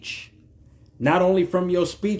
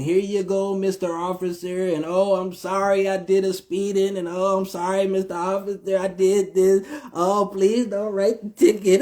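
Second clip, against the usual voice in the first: mock pleading driver; 4 semitones higher than usual.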